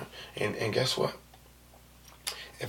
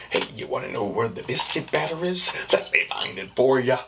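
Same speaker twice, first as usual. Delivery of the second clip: lightly mocking helpful-employee voice, louder at the end; sarcastic work voice; 4 dB louder than usual. Shown as a demonstration. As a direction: joke through a put-on service voice. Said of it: "So it's like sarcastic".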